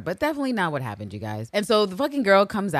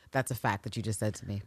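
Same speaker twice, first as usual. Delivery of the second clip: flat low Eve; 10 semitones lower, 8 dB quieter, faster than usual. Retold or imitated.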